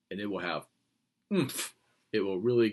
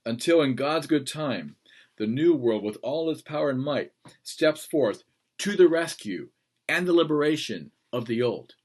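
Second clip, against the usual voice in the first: Churchill quote; 3 semitones higher, 5 dB louder than usual. Retold or imitated. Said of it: "And he said".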